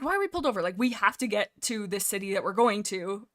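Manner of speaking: mildly exasperated, re-enacting the demand; mad. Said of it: "I'm, like, mad".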